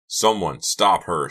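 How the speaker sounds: loud, drawn-out urgent call. A narrator's reading. Stewart calls after fleeing Karina, urgent shout. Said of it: "Stewart called".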